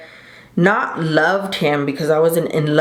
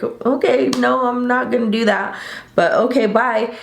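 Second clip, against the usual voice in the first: pitched up, breezy refusal; a hint of a sing-song polite no; dismissive brush-off; 5 semitones higher than usual. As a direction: wave him off lightly and leave.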